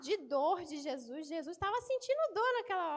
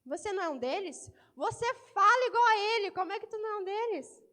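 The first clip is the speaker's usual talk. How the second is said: accusing woman; 4 semitones higher, 5 dB louder than usual. Acted. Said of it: "A mulher chega assim".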